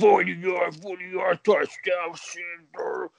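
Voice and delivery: slowed, drawn-out touchdown call; lightly voiced play-by-play announcer; mock announcer call. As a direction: call it like an old broadcaster.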